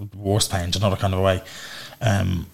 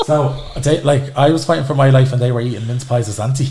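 indignant; 5 semitones higher, 7 dB louder than usual. Real, not acted. Outraged at siblings' Lapland trip.

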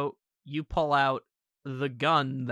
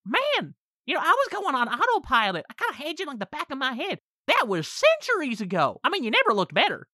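gloating demon; 9 semitones higher than usual. Acted. GM voices demon Corey gloating.

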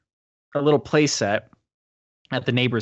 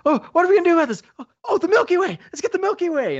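high, hammed-up dopey voice; the friends plan to revive Jonah with candy, in a high dopey mock voice; mock dumb voice; 4 dB louder, faster than usual. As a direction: play it like a clueless goof with a bright idea. Mocking dumb rescue plan.

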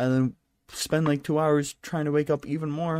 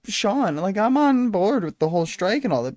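ordinary talk, nothing marked

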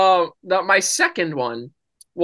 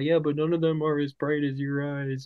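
soft, put-on sweet-talk; quiet pretend flirting; mock-romantic joke; 7 dB quieter than usual. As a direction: deliver a cheesy compliment softly. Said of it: "so I can make the joke about".

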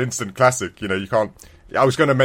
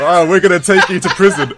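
mock Russian captors; 6 semitones higher, 8 dB louder than usual. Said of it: "So the Russians were saying".

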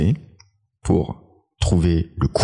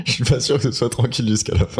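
laughing; 5 semitones higher than usual. Real, not acted. Nervous before eating hot sauce.

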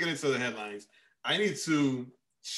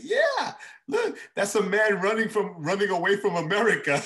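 put-on child voice; 7 semitones higher, 4 dB louder than usual. Child's reply, quoted while laughing.

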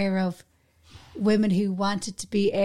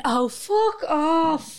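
mock exasperation; 6 semitones higher, much slower than usual. Reaction to self-service deals.

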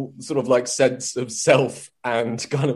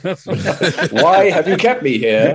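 put-on weary old player; 3 semitones higher, 3 dB louder, slower than usual. Bingo player complaining at 3am.

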